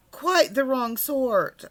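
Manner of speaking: a hint of a bear's grave verdict; firm decision. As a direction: lean hard on quite, slowly.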